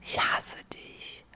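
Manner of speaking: slow whispered grumble. Real, not acted. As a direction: breathe it out slowly, playfully hostile. Mock-hating the card reader.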